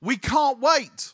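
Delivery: slow mock stress. Mocking impatience.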